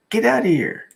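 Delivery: surprised. Real, not acted. Friend lives where brother lived.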